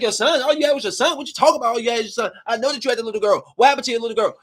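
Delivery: high, sharp disbelief; incredulous demand. Retold or imitated. New mother confronting the lady about her missing daughter. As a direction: push her, you don't believe a word.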